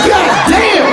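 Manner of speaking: high, loud astonished cry; stunned exclaim. Retold or imitated. Dad hearing what his stepdaughter did, stunned. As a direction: blown away by it. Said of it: "I'm like".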